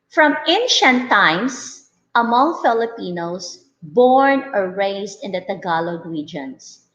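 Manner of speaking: steady read-aloud of a class passage. Acted. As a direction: read it carefully to the learners.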